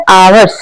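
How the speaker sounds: आवर्स begun on an open vowel, no h; silent h. Shown as a demonstration. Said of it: "इसका उच्चारण कैसे हो रहा है". (आवर्स का उच्चारण बिना "ह" के, स्वर से शुरू)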